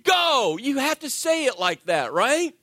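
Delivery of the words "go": put-on loud, much higher "Go!" as the child blocks the cart; scream go. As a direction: yell "Go!" in a rush. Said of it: "what do you scream".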